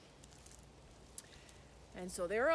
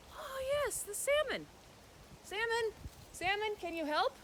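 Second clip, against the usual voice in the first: put-on higher, eager girl calling out; girl calling her salmon friend, higher; 12 semitones higher than usual. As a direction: brighten and call to the water.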